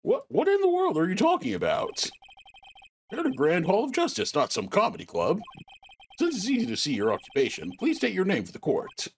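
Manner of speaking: high, exasperated judge voice; an old judge losing patience. Acted. Judge scolds witness.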